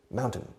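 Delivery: "mountain" as Maun plus a weak ten, falling; syllables joined. Shown as a demonstration. Teacher assembling the word after its parts, syllables joined. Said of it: "y luego el número diez".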